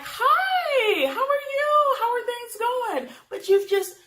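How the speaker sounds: high, bright mock-polite greeting; sing-song politeness to dodge the comment; overly sweet dodge of a rude remark; fake-sweet deflecting. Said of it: "And I'm just like".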